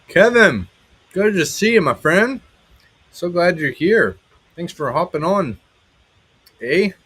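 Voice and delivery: hammed-up mystery accent welcoming Kevin; goofy accent. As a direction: greet the friend in a silly accent. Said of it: "that accent came from".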